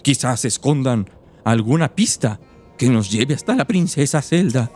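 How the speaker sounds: lightly voiced little old woman. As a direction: read it as a frail old lady. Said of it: "mi voz de viejita". (voz de viejita)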